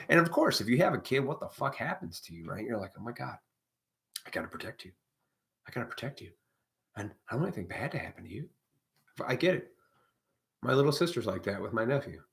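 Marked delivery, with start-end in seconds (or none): 3.0-8.5 mock anxious parent.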